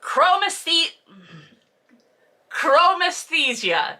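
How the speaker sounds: chromesthesia attempted slowly, syllable by syllable; careful effortful chromesthesia; struggling with chromesthesia. Real, not acted. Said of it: "I have a lisp and a stutter".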